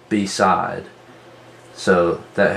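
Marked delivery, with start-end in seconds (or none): 0.1-0.9 "beside" split into two full syllables, BEE, SIDE; over-enunciate "beside" with a long ee in the first syllable; over-exaggerated pronunciation. Shown as a demonstration. Teacher showing students where the word divides, over-exaggerated "beside" as bee-side. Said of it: "over-exaggerate the pronunciation of it".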